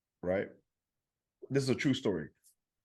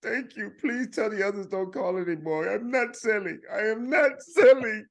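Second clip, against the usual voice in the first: put-on much higher, firm old woman, louder at the end; polite old lady voice; 11 semitones higher, 4 dB louder than usual. Old lady voice thanking callers then refusing firmly. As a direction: thank them, then put your foot down. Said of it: "I go".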